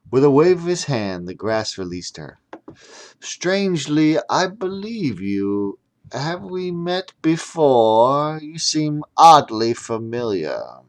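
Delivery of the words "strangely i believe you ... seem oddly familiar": pondering wizard. Acted. Wizard muses slowly.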